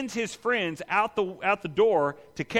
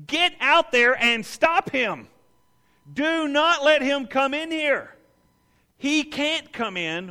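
higher, louder, slow panicked command; urgently stopping friends at the door; frantic order; 8 semitones higher, 5 dB louder, slower than usual. Retold or imitated. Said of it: "this guy flips his lid".

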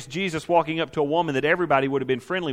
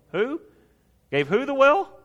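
high, incredulous mockery; the woman sneering at him, sarcastic; sarcastic disbelief; 10 semitones higher than usual. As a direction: scoff at the claim. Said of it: "She is responding in sarcasm".

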